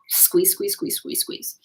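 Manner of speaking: breathy whispered chant of squeeze. Shown as a demonstration. Showing viewers how the planets push, whispered. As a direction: whisper squeeze squeeze like slow pressure. Acting out cosmic pressure.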